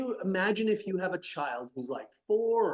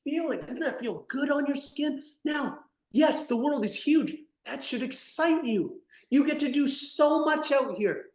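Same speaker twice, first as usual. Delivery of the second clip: gentle parent; 6 semitones higher than usual. Acted. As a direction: coax the child back outside tenderly. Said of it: "Would you not be like".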